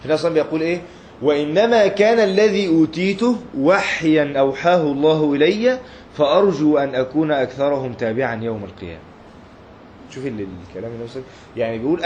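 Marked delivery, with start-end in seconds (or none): 1.2-9.0 solemn hadith quote. Acted. Preacher quotes the Prophet to his students, slow and solemn. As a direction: lift the words with reverence, then let them fall.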